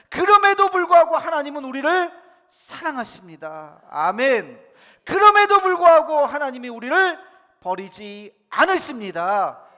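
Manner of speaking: high, very loud preaching cry. Real, not acted. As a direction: proclaim it with full conviction to the congregation. Leads congregation in faith declaration. (높고 큰 소리로 외치는 믿음의 선포)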